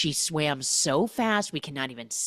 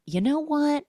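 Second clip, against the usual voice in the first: exasperated; 12 semitones higher, 3 dB louder than usual. Retold or imitated. Cam losing patience.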